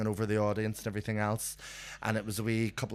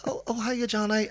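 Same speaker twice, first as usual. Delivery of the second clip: straight-faced greeting; 10 semitones higher than usual. Retold or imitated. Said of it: "I was keeping a straight face".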